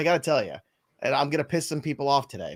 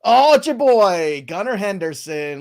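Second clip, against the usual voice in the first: excited; 5 semitones higher, 6 dB louder, slower than usual. Real, not acted. Excited reveal of wheel result.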